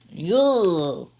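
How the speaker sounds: a sudden, high, loud shout. Real, not acted. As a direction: call out a big hey. Calling out loudly.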